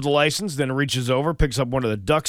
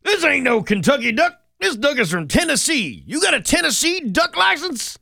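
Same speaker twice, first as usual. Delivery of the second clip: hammed-up game warden, higher and louder; 13 semitones higher, 4 dB louder than usual. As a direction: play a mock angry country game warden. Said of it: "and said".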